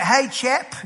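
playful fake British offer; mock British accent. Lucky fisherman offering Britons bait, mock British accent. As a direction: put on a teasing British accent.

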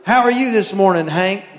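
cheery pet-talk voice; talking to the dog. Retold or imitated. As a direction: chat up the dog like a baby. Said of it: "conversation like the dogs won't talk".

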